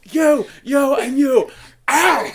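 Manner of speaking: high, loud mock yell; hammed-up furious dismissal; imitated chef's ejection. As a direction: throw them out of the kitchen. Imitating chef throwing cooks out.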